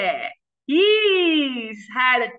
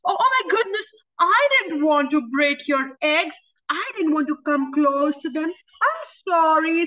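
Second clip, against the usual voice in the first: apologetic hippo; 3 semitones higher, faster than usual. Acted. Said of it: "said the hippo".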